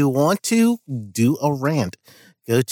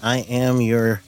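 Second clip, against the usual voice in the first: ordinary talk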